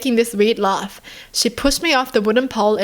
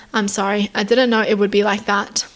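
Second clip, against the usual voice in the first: flat monotone apology. Retold or imitated. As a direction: say it in a dazed monotone. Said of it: "In a monotone voice".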